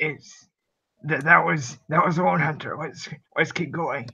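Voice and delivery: acted, hushed half-whisper, stage-whisper style. Telling companions in character that the howl was a lone hunter: half-whispering in character. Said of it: "I whisper".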